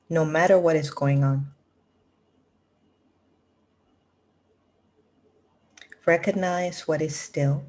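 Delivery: measured recital with long pauses between phrases; contemplative quote reading. Acted. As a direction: let each phrase of the quote sit in silence. Reads out a spiritual quote.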